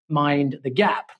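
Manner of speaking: put-on slow, drawn-out London accent. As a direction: say it like a London tube announcement. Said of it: "in my finest London accent".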